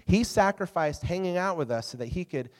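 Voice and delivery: mildly distraught retelling, pitch settling as it goes on. Retold or imitated. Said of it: "she was distraught".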